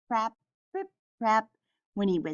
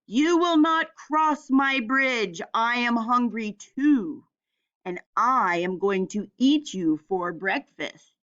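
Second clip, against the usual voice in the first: troll screams. Acted. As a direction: bellow at the goat like a hungry troll. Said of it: "as he screamed".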